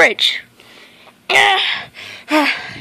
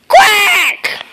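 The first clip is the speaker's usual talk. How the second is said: loud duck quack; 5 semitones higher, 4 dB louder than usual. Acted. Duck character quacks loudly.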